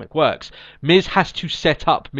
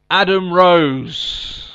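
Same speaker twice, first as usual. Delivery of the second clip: slow dramatic groan; 4 semitones higher, 5 dB louder, much slower than usual. Acted. Dramatic reveal of hated segment.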